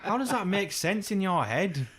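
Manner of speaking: high, laughing disbelief at dad. Retold or imitated. Mocking dad's phrase, laughing in disbelief. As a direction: laugh through the question. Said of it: "And I'm like".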